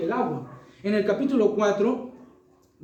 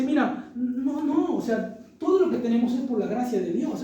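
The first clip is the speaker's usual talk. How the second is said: slow sarcastic; 2 semitones higher than usual. Retold or imitated. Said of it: "Pablo está hablando sarcásticamente".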